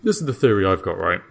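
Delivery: bewildered jailer, thinking it through aloud; Dave the jailer. Acted. Dave explains his theory.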